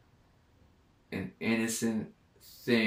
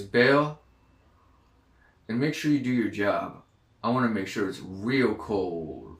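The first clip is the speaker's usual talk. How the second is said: meticulous retold voice; 6 dB louder than usual. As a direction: imitate a voice giving orders, pausing between phrases. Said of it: "It was very meticulous".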